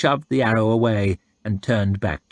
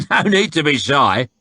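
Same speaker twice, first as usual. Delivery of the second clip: chuckling; 6 semitones higher, 4 dB louder than usual. A narrator's reading. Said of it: "chuckled the soldier".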